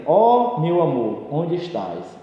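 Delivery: slow, drawn-out lovelorn call; poetic declamation. Shown as a demonstration. Teacher reciting a vocative example to the class, slow declamation. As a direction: recite it like a longing poem, lingering on Ó. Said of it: "Então, por exemplo".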